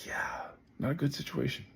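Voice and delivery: P=A; whispered aside. Acted. Grim aside.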